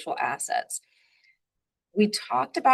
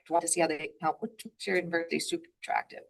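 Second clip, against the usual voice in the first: quick, run-together delivery; talking really fast; 4 dB quieter, faster than usual. Real, not acted. Interviewer racing through praise of the program, talking fast. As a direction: rush through to the end of the point. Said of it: "Sorry, I talk really fast sometimes".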